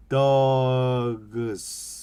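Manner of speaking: dogs with each sound separate, d-o-g-s, ending 스; spelled-out English. Shown as a demonstration. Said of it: "발음을 이렇게 풀어서 읽는 거예요". (dogs를 한 소리씩 풀어서)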